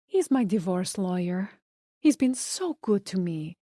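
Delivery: put-on Spanish accent. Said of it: "with a thick Spanish accent".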